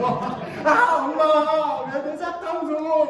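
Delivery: put-on high, loud childish wailing; mock crying tantrum. Child protesting to mother over candy, mock crying loudly. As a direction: wail it like a kid throwing a fit. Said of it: "막 이러고 막 울고".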